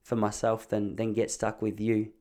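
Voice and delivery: low, soft grumbling to oneself; imitated mumble. Wife grumbling to herself beside husband on couch, low mumble. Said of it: "she was just having a little mumble".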